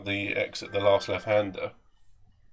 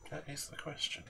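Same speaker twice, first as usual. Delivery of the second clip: put-on drunk musing; 6 semitones higher, 15 dB quieter than usual. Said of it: "drunk person impression".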